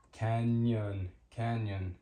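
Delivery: "Canyon" with N and Y smushed together; ny sound. Shown as a demonstration. Teacher showing learners the ñ sound, ny sound in "Canyon". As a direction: say "Canyon" with a clear ny glide in the middle. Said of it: "ñ makes the ñ sound".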